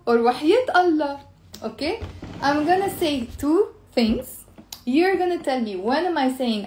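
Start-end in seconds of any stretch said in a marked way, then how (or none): 0.2-1.2 teasing وحياة Allah, stress on وحياة; sarcastic no. Shown as a demonstration. Teacher shows students a sarcastic refusal. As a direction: scoff it as a mocking refusal. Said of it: "Or you can even say".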